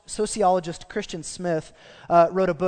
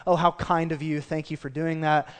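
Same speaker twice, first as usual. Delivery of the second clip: inner sarcasm. Retold or imitated. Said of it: "this need to be sarcastic".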